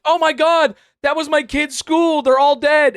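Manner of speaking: high, loud hammed-up horror shout; overacted scream. Shown as a demonstration. Streamer outdoing the reporter's line, hammed-up loud shrieking grief. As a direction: oversell the reporter's panic. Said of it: "what I just did there was a better delivery".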